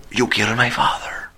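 put-on low, whispered menacing accent; Spanish villain voice. Avenging son threatening his enemy, low whisper. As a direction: deliver the threat low and cold. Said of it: "Spanish dubbed Jigsaw".

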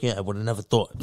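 a touch of Tony Soprano; Tony Soprano mutter. Retold or imitated. Answering a bad date under his breath, in a light Tony Soprano voice. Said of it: "under my breath, like it's Tony Soprano".

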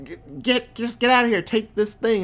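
high-pitched, hurried plea; mock urgent rebel. Rebel passing off the plans, imitated high and urgent.

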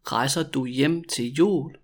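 measured question for learners; slow demonstration. Shown as a demonstration. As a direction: ask it slowly and clearly. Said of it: "when I say it really slowly".

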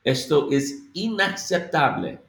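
Esto es inaceptable with each letter clear, stress on inaceptable; every letter said. Shown as a demonstration. Teacher modelling Esto es inaceptable, every letter clear. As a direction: spell out inaceptable in speech, nothing slurred. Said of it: "you have to slow down".

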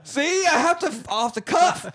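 high, breaking into laughter; talking through real giggles; laughing. Real, not acted. Host laughing at own poop joke, giggling.

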